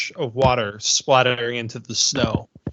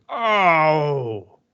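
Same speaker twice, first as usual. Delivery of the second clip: drawn-out falling "oh" of pain; half-hearted ogre cry of pain; mock yell of pain; 2 semitones higher than usual. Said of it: "he yells out in pain".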